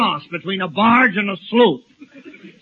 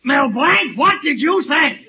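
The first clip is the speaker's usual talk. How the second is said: mock horror; 4 semitones higher than usual. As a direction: recoil in shock, dragging out the words. Appalled at hearing "I do.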